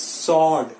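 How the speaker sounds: "sword" as SORD; slow "sword", w left out; silent w. Shown as a demonstration. Teacher says W is silent, no w. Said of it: "W is silent".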